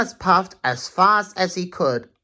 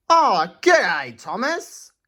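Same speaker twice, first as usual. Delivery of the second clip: lightly voiced Aussie mate calling out; a friendly hello to a mate; Shane greeting; 5 semitones higher, 3 dB louder, slower than usual. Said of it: "Shane called".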